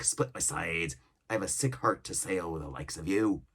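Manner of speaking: lively pirate voice, scornful; pirate cook scolding. Acted. Cook berating impatient shipmates, scornful pirate voice. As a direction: scold them like an old sea cook.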